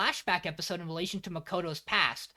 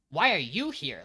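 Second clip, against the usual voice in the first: blunt challenge, firm on "why are you here"; imitating a puzzled anime line; anime-style questioning. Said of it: "if you're watching the anime, comes out as".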